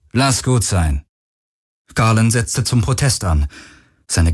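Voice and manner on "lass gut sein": weary. A narrator's reading. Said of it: "sagte Akina matt".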